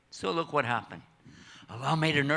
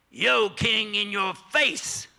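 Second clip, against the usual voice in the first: defiant taunt; 5 semitones higher, 4 dB louder, much slower than usual. Acted. Boy defies the king.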